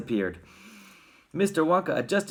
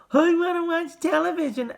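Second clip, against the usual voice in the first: high, loud tiny voice; shrill miniature boy's whine; squeaked tantrum; 5 dB louder than usual. A narrator's reading. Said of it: "he squeaked".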